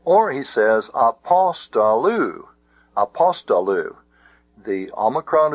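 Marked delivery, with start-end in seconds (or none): 0.9-2.5 apostolu with a raised, accented "pos"; apostolu, stressed on the third-last syllable; stress on second syllable. Shown as a demonstration. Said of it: "the word were accented". 3.0-3.9 apostolu accented on "pos"; apostolu, stressed on the third-last syllable; stress on second syllable. Shown as a demonstration. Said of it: "the word were accented".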